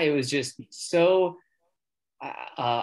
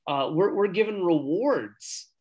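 excited; 5 semitones higher, slower than usual. Retold or imitated. Excited retelling of his reply.

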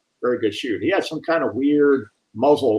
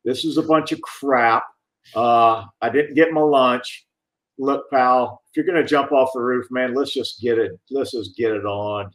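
bored negotiator voice. Retold or imitated. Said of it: "I love the voice. It was like".

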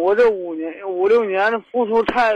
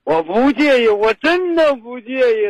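insistent, higher-pitched plea with a cry in it; worked-up pleading shout; 3 semitones higher than usual. Real, not acted. Caller insisting to the host he accepts her child, worked-up pleading. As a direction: plead at raised pitch, straining to be believed. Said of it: "别喊，别喊".

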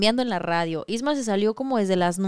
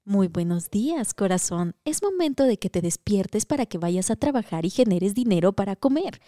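sweet alarm voice; 2 semitones lower than usual. Pretend. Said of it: "Paquita va a darles los buenos días".

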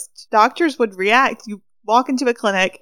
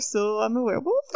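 laughing quote; 5 dB quieter than usual. Retold or imitated. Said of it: "was like".

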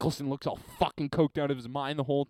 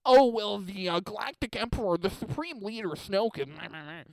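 lightly mocking nerd voice, a bit higher; 5 semitones higher than usual. Comedian lightly mocks a Star Wars nerd listing villains. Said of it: "big nerd talking about Star Wars".

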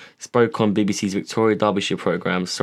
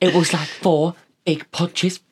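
mocking the accuser; 9 semitones higher, slower than usual. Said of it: "And she's like".

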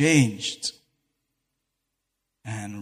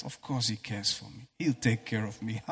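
soft, calm, easy words of trust; relaxed trust; 3 semitones lower, 9 dB quieter than usual. Retold or imitated. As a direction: say it softly, as if without a care. Trusting God, relaxed inner voice.

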